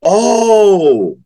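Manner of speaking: sudden high exclaimed oh; a realizing gasp of oh; surprised oh. Real, not acted. Realizes he misheard.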